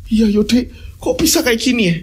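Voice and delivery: a wife nagging her husband; lightly voiced wife complaining about spoiled food.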